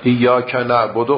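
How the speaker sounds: ایاک نعبد recited loud and slow; loud slow recitation. Shown as a demonstration. Teacher reciting the verse to the class, loud and slow. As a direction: project ایاک نعبد slowly. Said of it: "و همینطور".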